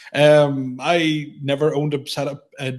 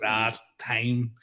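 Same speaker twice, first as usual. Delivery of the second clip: soft, slow realisation; quiet resignation; 3 semitones lower, 5 dB quieter, slower than usual. Retold or imitated. Man admitting to himself his beard must go, quietly resigned. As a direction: say it low-key and drawn out.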